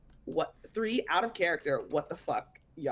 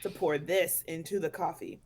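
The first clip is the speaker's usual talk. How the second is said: put-on Irish accent. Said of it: "why the Irish accent?".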